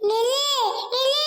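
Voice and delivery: loud ghostly command; loud, eerie order to halt. Acted. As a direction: call out like a pursuing ghost. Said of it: "நான் தான் பேய்".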